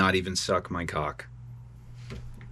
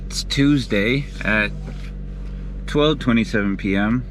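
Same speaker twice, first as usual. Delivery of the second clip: angry call-out; 4 semitones higher than usual. Real, not acted. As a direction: chew him out for the money he took. Angry voice message to Gideon.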